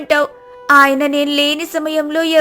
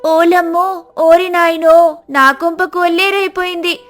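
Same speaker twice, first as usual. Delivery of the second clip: wailing cry; 4 semitones higher than usual. Acted. Sita wailing to the neighbourhood about her husband, mock wail. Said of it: "ఇలా అరుస్తూ ఉంటుంది".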